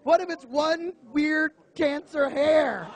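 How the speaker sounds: mock panic at the hairy friend; panicked. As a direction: freak out about cancer. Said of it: "And I'm like".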